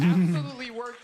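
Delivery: loud, shouted praise; host hyping up the comic to the audience, shouting; hyped shout. Real, not acted. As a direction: belt it out to the crowd.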